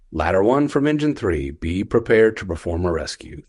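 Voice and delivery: level, unhurried radio order; calm and cool. Retold or imitated. Captain keys up to order a rescue, very calm. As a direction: give the directive coolly, without alarm. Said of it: "Very calm, very cool".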